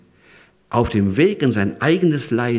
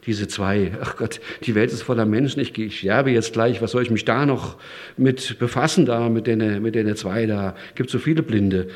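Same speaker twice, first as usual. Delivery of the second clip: dismissive. Retold or imitated. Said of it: "hätte auch sagen können".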